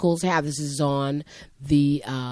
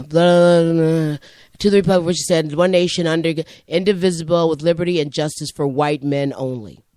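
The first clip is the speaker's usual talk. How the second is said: student's recited pledge; 2 semitones higher, 7 dB louder than usual. Retold or imitated. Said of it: "he would say at the end".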